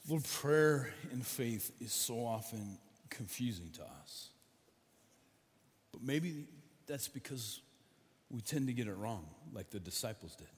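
heartfelt spoken prayer; leading prayer. Real, not acted. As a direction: pray aloud on behalf of the congregation. Pastor leads congregational prayer over music.

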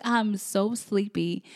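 slow, mildly sleepy complaint. Retold or imitated. Telling husband she can't wake up, sleepy. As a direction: draw it out slowly, drowsily.

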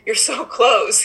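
gently urging a trapped fly toward the window; coaxing the fly. Retold or imitated. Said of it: "I was talking to it".

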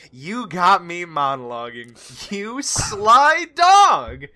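lightly acted drawn-out taunt, rising on the end; sly banter. Player voices his character turning from the wall, slow mock-impressed taunt. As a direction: savour it slowly, punching the last words.

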